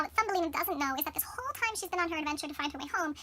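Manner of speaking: normal talking voice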